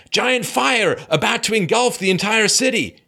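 high, slow mock-dramatic announcement; mock alarm. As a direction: read it like an overblown alarm. Mock headline about looming disaster.

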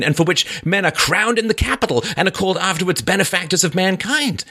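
bitter, defiant murderer, pitched high. Acted. Raskolnikov lashing out at his sister, high and bitter. Reads Raskolnikov's confession aloud.

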